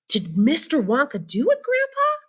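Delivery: put-on high boy's voice rising on Grandpa; child voice. Charlie asks Grandpa Joe, in a high child's voice. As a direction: ask like an eager little boy.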